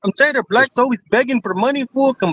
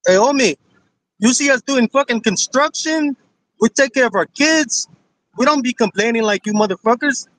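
possibly put-on Mexican street accent. Real, not acted. Caller defending Mexicans to the host, in a Mexican accent. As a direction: talk like a Mexican homie. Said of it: "you sound like you're trying to pretend to be Mexican".

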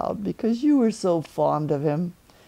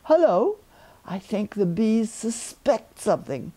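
a cheerful little bear calling down; Pooh Bear; 2 semitones higher than usual. Acted. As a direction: Pooh calling down from his balloon. Pooh voiced in story.

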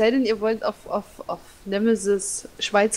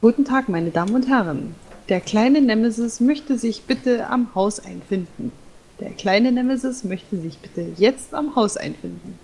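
announcer voice. Pretend. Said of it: "store-style loudspeaker announcement".

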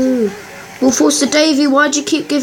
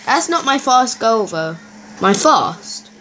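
lightly put-on posh English accent; a hint of posh English, half joking. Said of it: "Why am I talking posh?".

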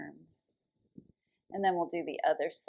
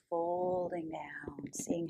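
whispering; 5 dB quieter than usual. Acted. Yoga cue dropped to a whisper.

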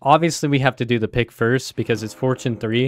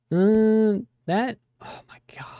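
hushed, breathless whisper; 9 semitones higher, slower than usual. Real, not acted. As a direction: whisper it in shock. Whispered shock at game.

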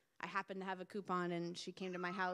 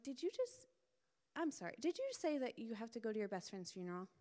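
surprised; 3 semitones higher than usual. Retold or imitated. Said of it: "And I was like".

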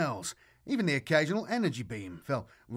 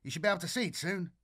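excited; 5 semitones higher, much faster than usual. Acted. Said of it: "Grishin's excited tone".

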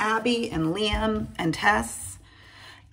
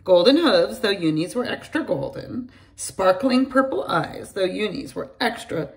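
put-on bright storytelling voice for kids; lively read-aloud for young children; story narration; slower than usual. A narrator's reading. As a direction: read it like a bedtime picture book. Reads a picture book aloud.

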